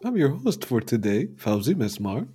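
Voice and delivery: swooping, polished radio-host intro; lightly put-on Saturday morning presenter; cartoon introduction voice. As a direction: welcome listeners like a rehearsed show host. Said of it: "Did you like my Saturday morning cartoon introduction voice".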